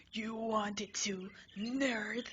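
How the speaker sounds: slow hissed taunt; a slow, sneering whisper. Acted. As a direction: taunt him under your breath. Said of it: "he yells".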